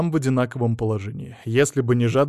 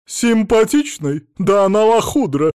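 loud, high, scornful yell; outraged howl; 8 semitones higher, 7 dB louder than usual. Acted. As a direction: howl with contempt. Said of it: "завопила Роза Марципановна".

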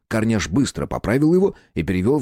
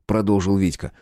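ordinary delivery, nothing marked

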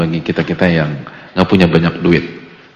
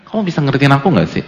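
fast, louder nagging complaint; mock irritated wife; 5 semitones higher, 4 dB louder, faster than usual. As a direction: snap it at him like a fed-up wife. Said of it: "Gitu loh". (istri kesal menuntut dimengerti, nada menggerutu)

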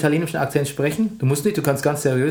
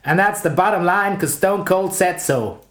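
slow, lightly voiced wrestler catchphrase; Stone Cold catchphrase; slower than usual. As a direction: drag out the last words like a wrestling promo. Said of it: "Stone Cold Steve Austin hat sowas bekannt gemacht".

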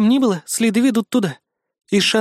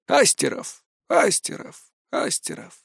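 fading echo, each repeat softer and breathier; 4 semitones higher, 5 dB quieter, slower than usual. Acted. The tunnel echoing the last word, fading. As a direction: let it die away like a cave echo. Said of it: "повторило за мной эхо".

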